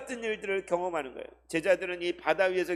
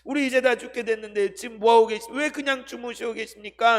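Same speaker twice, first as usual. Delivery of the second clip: reproachful scolding; 5 semitones higher, 4 dB louder than usual. Acted. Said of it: "책망하면서 꾸짖으면서".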